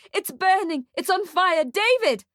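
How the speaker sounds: high, panicked mother; screaming. A narrator's reading. Mother warns David about the fire, screaming high. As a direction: cry out in rising alarm. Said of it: "screams the woman in blue".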